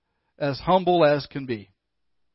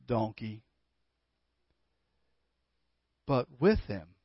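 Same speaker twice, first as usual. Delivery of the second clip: gentle mother; 3 semitones lower than usual. Acted. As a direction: lovingly set her child straight. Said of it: "she said gently".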